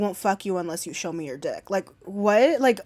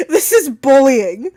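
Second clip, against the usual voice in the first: laughing; 5 semitones higher, 11 dB louder, slower than usual. Real, not acted. Mock complaint while laughing.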